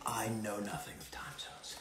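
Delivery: soft whispered aside; whispered confession. Pretend. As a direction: whisper it like a guilty secret. Self-mocking confession about time zones.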